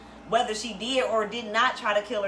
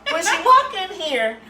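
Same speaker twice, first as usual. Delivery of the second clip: laughing through the line; 9 semitones higher, 8 dB louder, slower than usual. Real, not acted. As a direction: laugh it out, high and amused. Laughing while telling the story.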